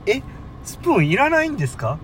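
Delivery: lightly acted shocked clerk; surprised. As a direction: play the clerk, puzzled that anyone would turn down a spoon. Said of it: "みたいな感じやったんですよ".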